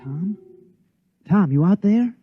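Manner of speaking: high, loud searching call. Acted. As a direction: call out for someone hidden outside. Calls for hidden Tom.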